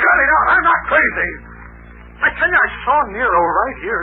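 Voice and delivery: furious refusal to be humored; angry protest. Acted. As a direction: shove their pity away. Shouts down those calming him.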